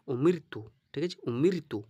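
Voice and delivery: উমিরতু with a light, unrounded r; thin light r. Shown as a demonstration. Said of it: "রকে মোটা করা যাবে না".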